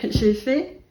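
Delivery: lent puis un grand tada, bien plus aigu et fort; présente le panier comme un tour de magie; proud reveal. Real, not acted. Unveiling the basket. (dévoilement triomphal, aigu et fort)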